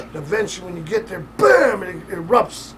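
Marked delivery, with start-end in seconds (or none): 1.4-2.7 slow, loud burst on bam; a loud slow eruption. Acted. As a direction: let it explode slowly. Boiling water erupting image.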